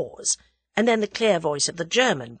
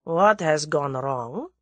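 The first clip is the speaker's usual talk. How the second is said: dangerous; slower than usual. Acted. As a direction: ask it slowly, with menace underneath. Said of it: "Number one's voice held suddenly a dangerous quality".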